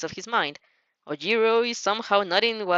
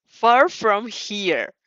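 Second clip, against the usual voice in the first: hissed; 4 dB louder, much slower than usual. Acted. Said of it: "Bakugo hisses".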